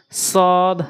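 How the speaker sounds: সদ as a heavy Arabic s with rounded lips; rounded mouth. Shown as a demonstration. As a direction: round the mouth on সদ, vowel held. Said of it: "সদের ক্ষেত্রে মুখটা গোল হবে".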